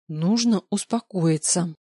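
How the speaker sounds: slow, deliberate self-soothing; slow self-calming. Acted. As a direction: talk yourself down slowly. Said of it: "Внушаю себе".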